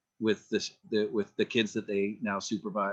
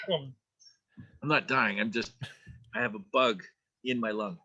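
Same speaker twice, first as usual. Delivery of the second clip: coughing after inhaling a fly; croaky, clearing the throat between words; just swallowed a bug; slower than usual. Real, not acted. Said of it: "I just inhaled a fly".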